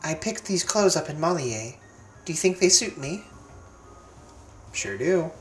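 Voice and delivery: put-on girlish heroine voice. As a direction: voice her as a gentle determined girl. Reads Lillie's lines in character.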